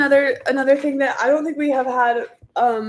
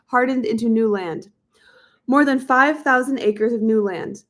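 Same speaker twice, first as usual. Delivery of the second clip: measured audiobook reading voice; book narration. A narrator's reading. Reads a history book aloud.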